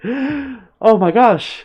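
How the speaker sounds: high, drawn-out mock shock; shocked crowd. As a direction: gasp it out like a horrified onlooker. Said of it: "a collective gasp among the crowd".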